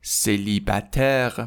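Célibataire whispered slowly; whispered model word. Shown as a demonstration. Teacher demonstrating the word for students, whispered.

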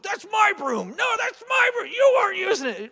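high, loud shouting over a broom; mock yelling match. Coworkers fighting over a broom, hammed-up high yelling. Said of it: "a yelling match over a broom".

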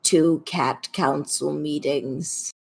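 slow, measured complaint from an offended cat; aggrieved talking cat. Acted. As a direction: lodge a solemn grievance as the cat.

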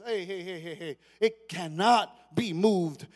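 hey hey building to a firm declaration; rally yourself, then declare it; David's rallying cry. Retold or imitated. Preacher acting David rousing himself. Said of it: "but then he says".

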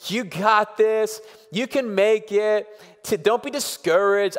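pep-talking parent. Retold or imitated. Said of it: "my reaction as a parent is I just wanna say".

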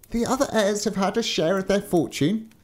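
high-pitched thin giant. A narrator's reading. Thin giant answering the young giant, high character voice. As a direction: raise the pitch as a protesting giant. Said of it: "said the thin giant".

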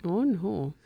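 echoed country Canadian "oh, no"; country Canadian accent. Shown as a demonstration. Co-host echoing host's phrase, in a country Canadian accent. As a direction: copy the country Canadian vowels.

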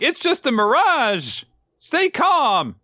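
very high-pitched mock cry of alarm; acted urgent warning. Kusanagi warns Dora about the mirage, urgently calling out.

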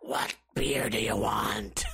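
low, slow, raspy bartender croak; Marge. Retold or imitated. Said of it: "bartender here sounds like Marge".

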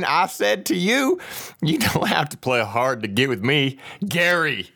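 put-on southern redneck accent. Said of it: "when I hear that accent".

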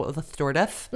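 "stewardess" lisped with th for each s; childhood lisp. Retold or imitated. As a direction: mimic a little kid's lisp on "stewardess". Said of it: "I had a lisp when I was little".

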